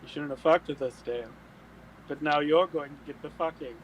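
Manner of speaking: a hint of another man's voice, forceful; Dale. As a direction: deliver the threat firmly in his voice. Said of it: "say in Dale's voice out loud".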